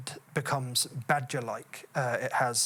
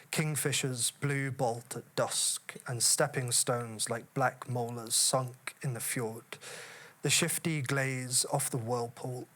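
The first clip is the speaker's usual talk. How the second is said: measured, unhurried poem reading; poetry reading. Acted. Reads Heaney's poem aloud.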